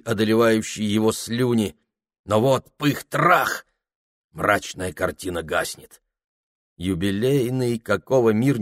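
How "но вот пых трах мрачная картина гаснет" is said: plain reading voice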